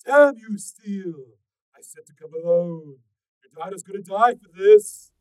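high, loud raging threat; furious kidnapper. A narrator's reading. Stalker threatening Steel over his daughter, raging loud. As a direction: spit it out like a madman. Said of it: "kidnapper raging at Steel".

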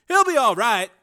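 steady him with calm reassurance; reassuring doctor. A narrator's reading.

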